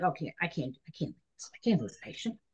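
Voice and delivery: low, hushed, hurried objection; meek protest. Retold or imitated. Young nurse told to leave by doctor, meek and hushed. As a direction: protest under your breath, retold.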